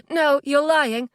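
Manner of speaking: high, drawn-out disbelief; upset, slow accusing denial; distressed denial. Acted. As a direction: refuse to accept it, pitch climbing. Refusing news of a death.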